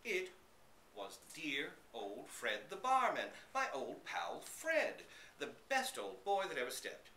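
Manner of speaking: high, slow joyful gush; delighted. A narrator's reading. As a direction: gush over an old friend. Dog joyfully greets old friend.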